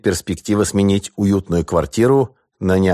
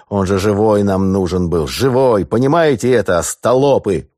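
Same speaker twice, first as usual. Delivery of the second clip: angry groan; 4 semitones higher, 4 dB louder than usual. Acted. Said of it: "простонал Яков".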